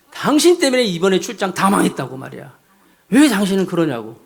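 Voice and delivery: mild mock anger. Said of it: "막 화를 내면서".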